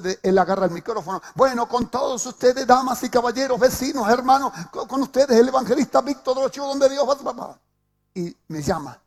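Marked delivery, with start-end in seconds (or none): 1.4-7.6 lightly hammed-up announcer, a little higher and louder; mild mock loudspeaker announcement. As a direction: imitate a pastor hyping the crowd.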